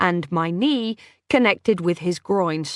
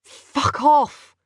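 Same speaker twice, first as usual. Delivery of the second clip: sharp, higher and louder brush-off; short, curt; 8 semitones higher, 5 dB louder than usual. A narrator's reading. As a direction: snap it off short and final. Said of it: "I said shortly".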